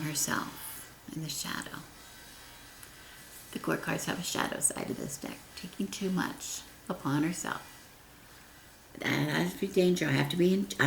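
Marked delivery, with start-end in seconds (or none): 3.5-7.6 half-whispered. Real, not acted. Quiet unvoiced reading.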